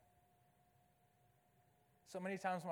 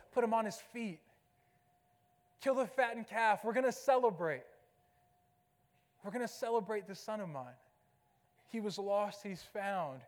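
a father beside himself with joy, calling for the feast; joyful father calling out; 7 dB louder than usual. Retold or imitated. Father calls servants for a feast, joyful and loud.

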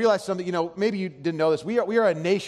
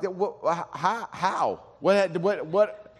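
baffled disbelief; much slower than usual. Retold or imitated. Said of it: "And I was like".

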